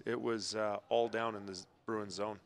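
ordinary talk, nothing marked

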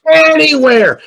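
high, loud mock children's shout; kids shouting out. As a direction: shout it like a roomful of excited kids. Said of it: "the kids shouted out".

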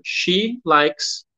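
slow, clear English; slow, careful teacher read; slow model sentence. Shown as a demonstration. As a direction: spell it out slowly for learners. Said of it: "o conjugado fica".

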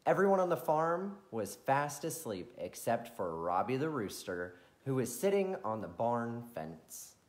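put-on gentle storyteller reading to kids; bedtime story narration. A narrator's reading.

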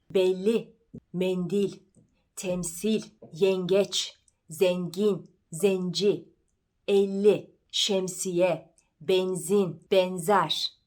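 "Belli", "mendil", "zengin" with a narrow closed E; closed front E, lips spread sideways; closed E words. Shown as a demonstration. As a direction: jaw stays shut on each E of "şemsiye", "benzin". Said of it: "kapalı E ile söylenen sözcükler".

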